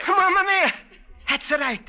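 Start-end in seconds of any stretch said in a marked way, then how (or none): 0.1-0.7 loud joyful cry; excited. Acted. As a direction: exclaim with delight. Joyful exclamation at the song's name.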